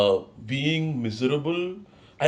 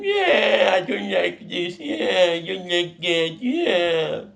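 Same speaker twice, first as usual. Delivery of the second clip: mocking whine; 6 semitones higher, slower than usual. Mocking own whining complaints.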